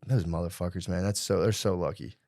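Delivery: low, soft muttering; retold quiet envy; envious grumble. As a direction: grumble it to yourself.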